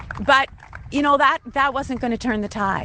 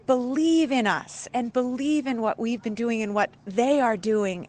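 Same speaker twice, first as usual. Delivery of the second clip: emotional; 3 semitones higher than usual. Real, not acted. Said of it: "you can tell I'm emotional".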